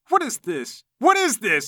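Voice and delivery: yelling. Acted. Fighter demands an answer after the unmasking, yelling. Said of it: "Namir yells".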